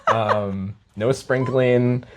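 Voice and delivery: chuckling through the words; amused, laughing while telling. Real, not acted. Joking about Baptist upbringing.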